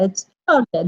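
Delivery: a broad Southern "Georgia" with the r dropped: "Jaw-ja". Shown as a demonstration. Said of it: "little Southern twang in it".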